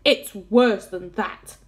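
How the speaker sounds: loud, slow, weighty exclamation; dismayed cry. A narrator's reading. Police chief topping the fire chief's fears, loud cry. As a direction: cry it out slowly, stressing how bad it is. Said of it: "cried the chief of police".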